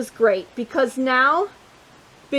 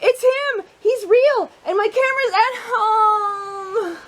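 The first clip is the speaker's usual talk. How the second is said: excited shout; 8 semitones higher, slower than usual. A narrator's reading. Mister Jasper seeing Bigsby for real, excited shout. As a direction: blurt it out, amazed he's real. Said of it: "Then he thought".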